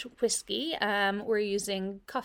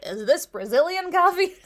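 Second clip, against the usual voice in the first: put-on loud, high American tourist accent; 7 semitones higher, 8 dB louder than usual. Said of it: "Some American asked".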